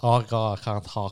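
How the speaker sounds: loud hot potato voice, talking round a hot potato. Describing a throat infection symptom and demonstrating it, hot potato voice. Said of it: "We call it hot potato voice".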